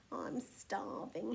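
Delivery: feeble, drawn-out complaint; moaned weakly. A narrator's reading. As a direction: moan faintly with hunger. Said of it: "he moaned".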